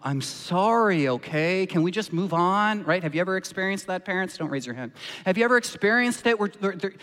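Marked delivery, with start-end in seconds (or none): 0.0-2.8 mildly hammed-up sulky sorry; petulant teenager. Saul as a teenager brushing off his apology, mild mock petulance. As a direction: toss off the apology like a bored teen. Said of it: "a petulant teenager in the way that he says sorry".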